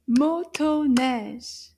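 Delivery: MOTONEIGE loud and slow, split into three clear beats; syllable by syllable. Shown as a demonstration. Teacher clapping syllables with children, Motoneige in loud separate beats. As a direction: clap out Motoneige as three strong, drawn-out syllables. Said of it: "clap the syllables together".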